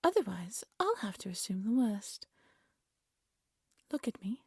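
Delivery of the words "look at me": hushed menacing order; quiet menace. Acted. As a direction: murmur it like a threat. Queen interrogates captured thief.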